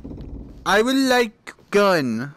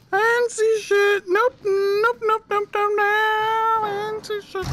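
frightened denial; 12 semitones higher than usual. Real, not acted. Backing away in fear.

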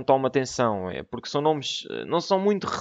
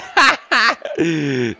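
excited laugh; 4 semitones higher, 5 dB louder than usual. Real, not acted. After big move.

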